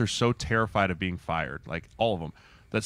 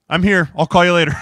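imitating his friend; 7 semitones higher, 7 dB louder than usual. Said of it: "he's like".

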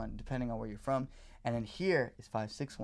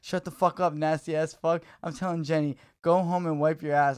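loud furious rant, pitched higher; angry texter; 3 semitones higher, 7 dB louder than usual. Retold or imitated. Stranger texting about shit in his toilet, loud angry rant. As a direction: tear into him like a disgusted stranger. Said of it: "And he goes".

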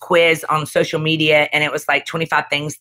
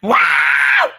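much higher, louder, a hammed-up "wow"; mock shout; 3 dB louder than usual. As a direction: throw it out big and teasing. Mock reaction to son's complaint.

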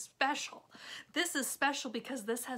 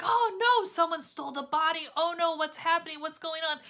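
panicked; 5 semitones higher, 7 dB louder, faster than usual. Retold or imitated. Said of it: "they're like".

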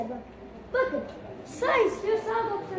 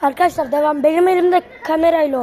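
laughing; 2 semitones lower, 11 dB louder than usual. Real, not acted. Laughing to viewers.

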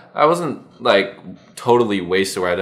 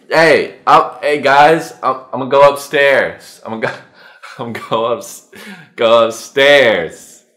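put-on drunken announcement; 6 dB louder than usual. Drunk announcing he goes upstairs.

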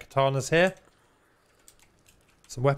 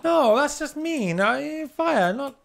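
excited; 12 semitones higher, slower than usual. Real, not acted. Playful fire fight.

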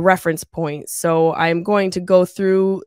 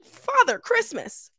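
drawn-out awe; slower than usual. Acted. Awed exclamation at the gift.

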